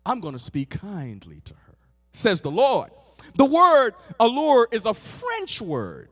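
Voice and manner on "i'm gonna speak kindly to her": low, soft voice of God; tender assurance. Acted. God promises kindness to his wayward girl, softly tender. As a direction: say it gently, dropped right down.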